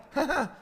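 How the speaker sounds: short, high burst of laughter; one loud surprised "ha"; startled laugh. Retold or imitated. Astonished reaction to son's words.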